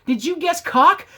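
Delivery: spring the answer like a host; mock quiz host reveal.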